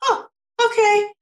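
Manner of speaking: put-on high, meek child's "okay"; child accepting. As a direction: play the toddler giving in. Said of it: "the child kind of looks at her like".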